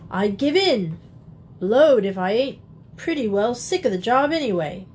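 a caught thief surrendering gruffly; husky burglar. Acted. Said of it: "a husky voice".

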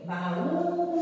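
Baú with Ú high and held; stress on final U. Shown as a demonstration. Teacher showing the accent on U, Ú drawn out. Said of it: "no U".

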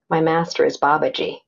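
low, grave and solemn; a hint of a solemn guru; serious voice. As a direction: announce it like a weighty secret. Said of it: "in a very serious voice".

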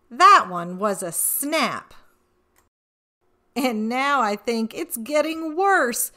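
playful rhyming read-aloud; storybook reading. A narrator's reading. Reading the boastful leprechaun to children, lightly playful. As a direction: tease the reader as the cheeky leprechaun.

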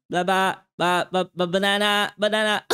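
playful sing-song minion babble. Pretend. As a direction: chant banana like a minion. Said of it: "parang mga minions". (boses minion na pakanta)

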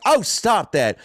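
put-on high, playful Houston-accent scolding; thick Houston accent. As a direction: brush it off in a mock Houston accent. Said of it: "someone with a thick accent like that".

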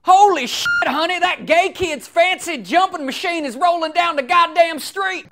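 imitating an American husband hollering to his wife; mock American yokel. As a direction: yell it like a shocked small-town neighbor. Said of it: "he'd be like".

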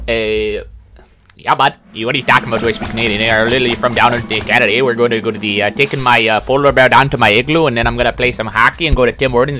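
light put-on Canadian accent; mock Canadian accent. Streamer answering whether he speaks Canadian, mock Canadian accent. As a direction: play up a stock Canadian. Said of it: "do you speak Canadian?".

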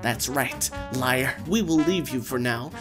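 loud menacing gang boss; gang leader. Acted. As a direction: threaten them like a thug. Gang threatens.

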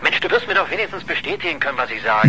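high, loud pressing demand; insistent pleading. Acted. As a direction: push him to confirm, loudly. Reporter pressing for confirmation.

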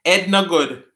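Jamaican patois, "Ed" without H; light patois demo. Shown as a demonstration. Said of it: "We don't pronounce our H's in Jamaica".

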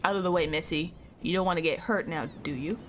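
low mild menace; a hint of a sneering henchman; voiced villain line; lightly voiced thug. Voicing game thug.

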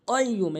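কাইয়্যুম starting with a back-of-tongue q; deep qaf. Shown as a demonstration. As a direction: start কাইয়্যুম with tongue root against the palate. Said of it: "জিব্বার গোড়া উপরে তালুর সঙ্গে".

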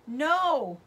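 loud, high scream of terror. A narrator's reading. Mother screaming as her husband's horse rears, terrified. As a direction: scream it in horror. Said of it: "Ma screamed".

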